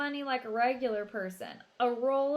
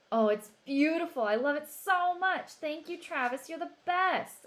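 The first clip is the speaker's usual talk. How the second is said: high and loud with delight; overjoyed girl thanking her brother; thrilled little sister; 7 semitones higher, 6 dB louder than usual. A narrator's reading. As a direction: gush over the gift.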